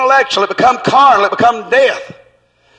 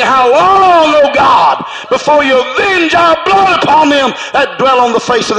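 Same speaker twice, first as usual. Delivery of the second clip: crying out; 2 semitones higher than usual. Retold or imitated. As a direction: call it out like blood crying from the ground. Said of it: "their blood is crying out".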